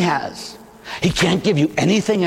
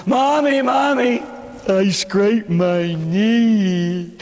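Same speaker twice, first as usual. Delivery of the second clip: put-on child voice; 3 semitones higher, much slower than usual. Child Jesus calling mother.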